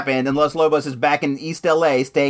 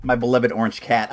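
winded after yelling, out of breath. Real, not acted. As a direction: talk while catching breath. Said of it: "I'm out of breath right now".

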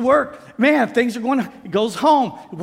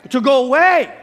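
emphatic shout; 3 semitones higher, 6 dB louder than usual. Real, not acted.

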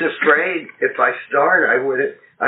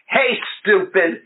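gentle teasing; 4 semitones higher, slower than usual. Retold or imitated. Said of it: "in his lovely, gentle way".

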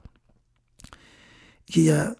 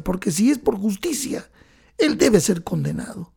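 crying mother; 5 semitones higher than usual. Retold or imitated. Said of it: "la madre llorando dijo".

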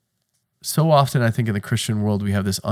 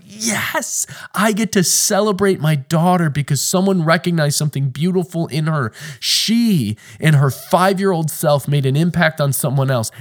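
high, bright with elation; lightly performed overjoyed dad; joyful pride; 4 semitones higher than usual. Pretend. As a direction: burst with a father's delight. Joyful dad's inner voice.

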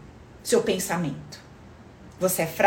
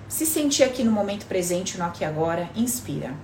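calm them down gently, unhurried; soft spa whisper; 2 semitones lower, 4 dB quieter than usual. Acted. Leads a breathing relaxation.

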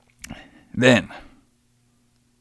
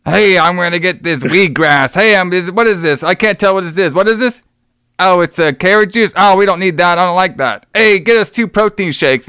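hammed-up Mr T; 5 semitones higher than usual. Mr T acting a fool in store.

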